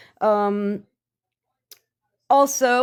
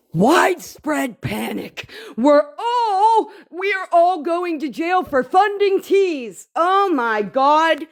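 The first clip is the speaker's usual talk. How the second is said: a touch of high mocking alarm; gasp, then play their panic; 5 semitones higher than usual. Mocking the friends' jail panic, lightly high.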